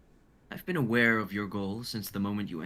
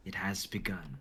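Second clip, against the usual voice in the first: ominous whisper; 4 dB quieter than usual. Acted. Doc's ominous closing line.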